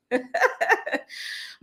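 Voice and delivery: short breathy laugh. Real, not acted. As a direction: chuckle at the comment. Amused by a viewer's comment.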